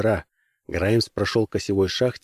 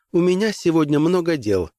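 higher, brisk official voice; stern lady commissioner; 6 semitones higher than usual. Acted. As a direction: dismiss them coolly.

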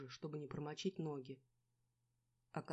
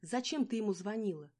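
loud accusing question; heated scolding; angry question; 5 semitones higher, 6 dB louder than usual. A narrator's reading. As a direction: demand an answer, raised voice. Angry quarrel.

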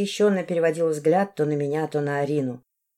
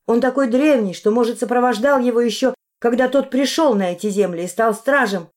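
sobbing; 5 semitones higher, 5 dB louder than usual. A narrator's reading. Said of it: "всхлипнула я".

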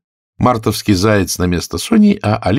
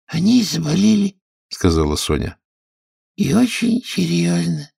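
high, squeaky storyteller mouse; a tiny creature spinning a tale; sleepy Dormouse voice; 10 semitones higher than usual. Acted. Dormouse telling Alice her tale, squeaky and high.

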